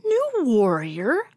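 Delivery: a startled cry of dismay; nervous cat in distress. Acted. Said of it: "Muley cried in distress".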